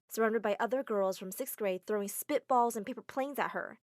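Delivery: plain reading voice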